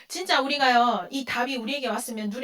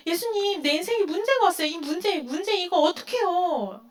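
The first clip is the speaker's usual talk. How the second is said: higher, anxious pleading; pleading to Jesus; 5 semitones higher than usual. Retold or imitated. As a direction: cry out to Jesus about your trouble, mock distress. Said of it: "우리는 뭐라 그래요?".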